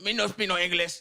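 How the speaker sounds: lightly mocked foreign accent, broken English; immigrant accent. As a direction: imitate a foreign shop worker's accent. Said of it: "That's how I do the accent".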